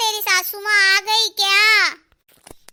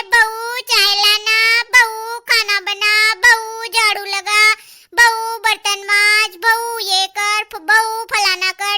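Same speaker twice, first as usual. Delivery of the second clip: mimicking mother-in-law; 4 dB louder, slower than usual. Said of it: "जल्दी उठा देती है".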